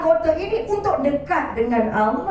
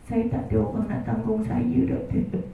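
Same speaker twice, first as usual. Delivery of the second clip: mock widow's lament; 5 semitones lower, 5 dB quieter than usual. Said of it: "Tiga bulan nangis".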